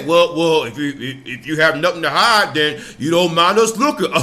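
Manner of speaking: mocking cops. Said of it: "cops always say".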